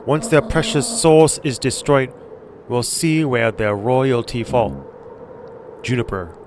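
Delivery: put-on slow, menacing Asian-accented threat. Gran threatening Joseph, slow Asian accent. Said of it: "doing the Asian accent".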